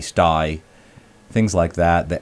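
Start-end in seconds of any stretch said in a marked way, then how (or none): 0.0-0.6 "sty" with the A of stay said as eye; Cockney A. Shown as a demonstration. Explaining Cockney A's: stay said as "sty". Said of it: "like in stay, would be sty".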